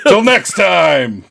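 high, slow, drawn-out farewell; hammy TV hero signing off; cartoon sign-off. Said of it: "the only thing he ever says".

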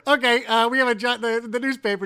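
high, loud put-on patience; exasperated retort. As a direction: push a bright fake-friendly answer at a clueless fan. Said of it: "I go".

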